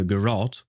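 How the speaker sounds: "garrote" with a short first syllable, weight on ROT; tentative "garrote", ending like "rot"; second-syllable stress. Shown as a demonstration. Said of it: "how you pronounce it".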